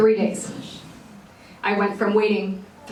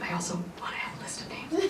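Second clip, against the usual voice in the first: higher, whispered through a giggle; laughing whisper; 6 semitones higher, 9 dB quieter, faster than usual. Retold or imitated. Wife wishing for a name list, giggling whisper. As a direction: sneak in your wish with a giggle. Teasing husband about baby names.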